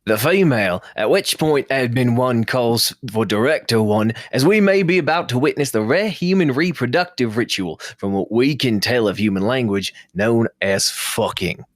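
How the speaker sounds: put-on reading in a light Australian accent, drifting into it; a mock Attenborough nature read that slides Australian. Reading bad erotica to friends in a light Australian accent. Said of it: "That went a little Australian at the end there".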